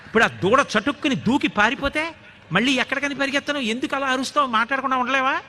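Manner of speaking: cheeky boy's mock outrage; indignant scolding. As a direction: scold her as a cheeky child. Krishna scolds her back.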